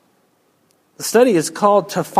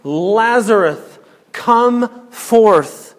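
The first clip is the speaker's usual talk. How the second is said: 1 commanding call; 4 semitones higher, 4 dB louder, much slower than usual. Acted. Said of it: "The first command".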